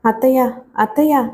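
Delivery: understated grief in a repeated call; grief-choked. A narrator's reading. Shailaja too upset to tell her aunt, mildly grief-stricken. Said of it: "దుఃఖోద్వేగంతో మాట్లాడలేక".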